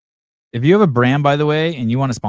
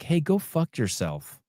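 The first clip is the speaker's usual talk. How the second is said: mock retort; 6 semitones higher, 5 dB quieter, slower than usual. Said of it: "It's like".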